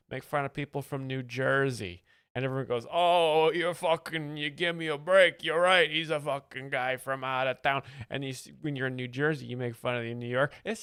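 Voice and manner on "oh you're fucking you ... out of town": loud indignant local, half-acted; mock loud local griping about out-of-towners; mock New Yorker outburst. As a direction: bark it like an annoyed New Yorker agreeing. New Yorkers mocking outsiders.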